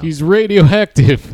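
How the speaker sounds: ominous announcer. Acted. Adding to the Godzilla description.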